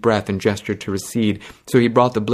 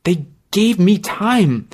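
dazed; 10 semitones higher, slower than usual. Acted. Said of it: "she said dazedly".

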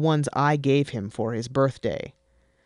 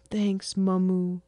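put-on high childish pleading voice; whiny little boy explaining; 7 semitones higher, slower than usual. Son pleading with his mother, high and childlike.

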